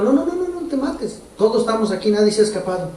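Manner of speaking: Paul crying out to the jailer, pitched high; mock shout. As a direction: call out to stop the jailer. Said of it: "sale Pablo gritando".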